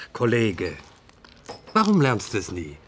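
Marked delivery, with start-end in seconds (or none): 0.1-0.8 whispered. Acted. Colleague's quiet reproach.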